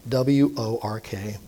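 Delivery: W O R K spelled letter by letter, slow; spelled out slowly. Shown as a demonstration. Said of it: "a four-letter word".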